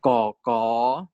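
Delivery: KO drawn out, second one rising; "Ko, ko" stretched for a learner to copy; demonstrated syllables. Shown as a demonstration. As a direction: model "Ko, ko" as separate long syllables. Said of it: "teach them how to say".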